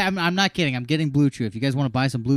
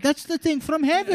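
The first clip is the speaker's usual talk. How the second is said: high mock amazement; a hint of wide-eyed wonder; mock awe; 12 semitones higher than usual. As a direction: gasp it like a revelation. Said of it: "you're like".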